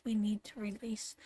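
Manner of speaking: breathy whispered repeat. Acted. Reader to Tyrone, whispering the call to release. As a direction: whisper it again, intimately.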